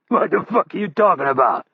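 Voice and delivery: a hint of rough old spy voice, baffled; incredulous outburst. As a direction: demand an answer, stunned. Hurley baffled by the threat.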